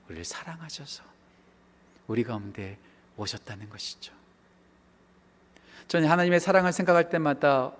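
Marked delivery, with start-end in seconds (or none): 0.1-4.1 very soft, low reverent close; hushed. Real, not acted. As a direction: drop right down for the tender truth. Hushed turn after shouted preaching. (아주 낮고 조용하게)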